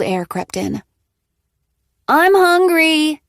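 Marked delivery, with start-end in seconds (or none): 2.1-3.2 put-on much higher, slow, whiny kid; a small child whining for food; child's voice. A narrator's reading. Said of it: "came Riley's voice".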